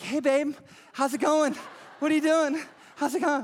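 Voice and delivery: husband on vacation greeting his wife, excited. Acted. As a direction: bound in full of energy. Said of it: "he's excited and he's leaping".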